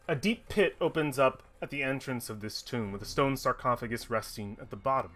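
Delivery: measured read-aloud room description; storyteller laying out a dungeon chamber; game master scene-setting. Acted. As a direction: set the scene with deliberate pauses.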